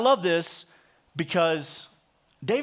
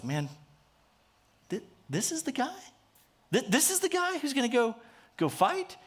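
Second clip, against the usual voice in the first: higher, deflated disbelief; disappointed Saul; 6 semitones higher, 4 dB quieter than usual. Retold or imitated. Preacher voicing Saul seeing the shepherd boy, let down. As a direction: sound let down by the boy in front of you. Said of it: "he was just like".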